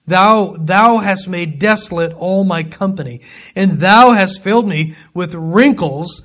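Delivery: slow, deliberate reading of Job's lament; scripture reading. Acted. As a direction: read it like an ancient complaint, word by word. Reads Job's lament slowly.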